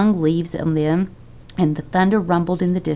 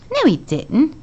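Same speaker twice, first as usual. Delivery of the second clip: breathless denial, a touch higher; 9 semitones higher than usual. A narrator's reading. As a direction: gasp it out. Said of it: "said Charlie breathlessly".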